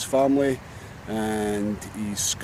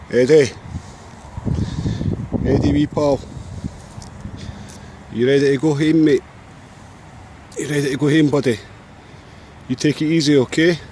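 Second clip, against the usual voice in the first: raised voice, calling across open ground to a seagull; calling out to the bird. Real, not acted. Calling farewells to seagull outdoors.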